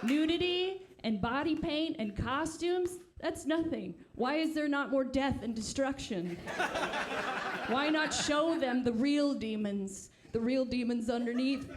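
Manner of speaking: fiery preacher cadence, lightly done; half-hearted hellfire preaching; mock sermon. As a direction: rail against sin like a pulpit preacher. Mock preacher debate argument.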